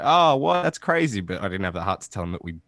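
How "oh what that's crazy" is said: higher-pitched mock amazement; feigned surprise. Host retells humouring the fan, with feigned surprise. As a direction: play along as if impressed. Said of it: "And I was like".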